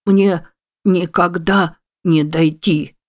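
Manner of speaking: slow, hopeless whine; whimpering. A narrator's reading. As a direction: drag it out in despair. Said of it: "хныкал черепах".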